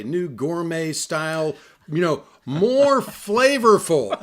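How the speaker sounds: slow, drawn-out mocking ad read; mock ad slogan. Man mocking dog food packaging, slow mock ad read. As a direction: parody the pet food label, slowly. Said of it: "it'll say".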